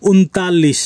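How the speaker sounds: ঊনতাল্লিশ said as Hindi untalis; Hindi pronunciation. Shown as a demonstration. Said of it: "এটি হিন্দি হবে".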